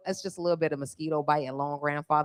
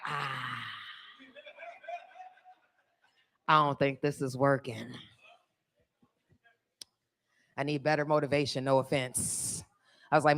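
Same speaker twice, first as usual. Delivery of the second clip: quiet strained self-talk; 5 semitones lower, 7 dB quieter than usual. Retold or imitated. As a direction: murmur it while straining hard.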